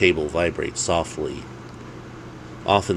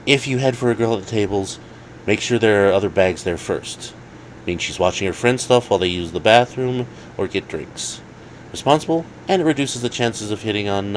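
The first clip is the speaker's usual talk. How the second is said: higher, quicker advice voice; friend's voice; 4 semitones higher than usual. Acted. Jake coaching Dave on approaching girls, quick higher voice. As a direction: explain the rules like an expert.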